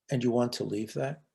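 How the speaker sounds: softly voiced, gentle question. Speaker gently asking an upset social worker, gentle. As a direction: ask it softly, as gently as you can. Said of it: "in as gentle a voice as I could muster".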